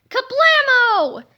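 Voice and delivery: high, loud, slow kablamo; big explosion word. A narrator's reading. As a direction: make the crash land big.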